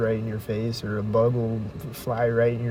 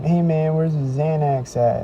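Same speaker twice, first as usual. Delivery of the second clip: lightly voiced shady stranger; mock sketchy guy; 5 semitones higher, 4 dB louder than usual. Shady guy in the alley asks him for Xanax, sketchy mock.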